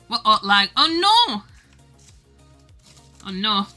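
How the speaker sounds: ordinary delivery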